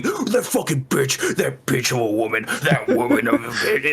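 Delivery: imitating crying men raging; mock the sobbing rant; mocking whiny men. Co-host imitating the crying streamer's friends. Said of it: "They're all going".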